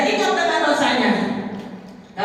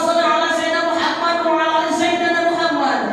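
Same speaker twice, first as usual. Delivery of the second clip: raised, fervent repentance; fervent plea; 5 semitones higher than usual. Acted. Adam begging Allah for forgiveness, raised and fervent. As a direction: cry out the plea with longing.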